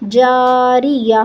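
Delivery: "جاریہ" slow, closing on a breathed h; waqf with ha. Shown as a demonstration. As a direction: stop on "جاریہ" with the round ta turned into an audible h. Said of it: "ہمیں اس کو پڑھنا ہے ہا". ("جاریہ" کے آخر میں ہا پر وقف)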